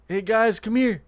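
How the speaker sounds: put-on high, sing-song call to the kids; sweet calling out. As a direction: lure them in with a sugary hello. Luring the kids into trap.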